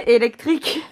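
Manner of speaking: laughing while repeating Électrique; amused mock echo of Électrique.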